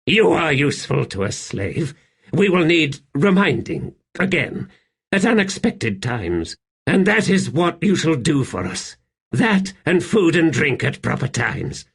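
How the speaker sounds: high, haughty instruction; imperious emperor. Acted. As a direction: instruct your slave from the throne. Narrator voices the emperor instructing.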